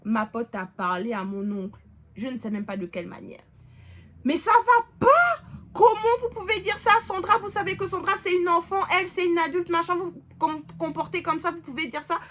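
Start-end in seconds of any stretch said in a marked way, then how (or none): 4.2-11.9 loud, high, indignant telling-off; angry confrontation. Retold or imitated. Friend scolding the uncle on the phone, loud and indignant. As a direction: tear into him on her behalf.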